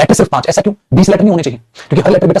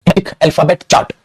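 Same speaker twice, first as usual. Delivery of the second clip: slow dictation; much slower than usual. Shown as a demonstration. Teacher naming chart for students.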